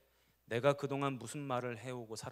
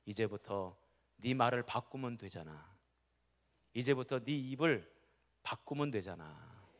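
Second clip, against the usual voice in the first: gentle voice of the Lord; 3 semitones lower than usual. Retold or imitated. The Lord gently reassures the despairing pastor. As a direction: speak kindly, like a patient father. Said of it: "주님이 음성을 하나 들려주세요".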